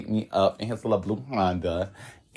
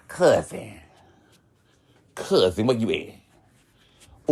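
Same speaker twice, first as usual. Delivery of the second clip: mocking gay phone talk; much slower than usual. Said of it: "that's how punks talk".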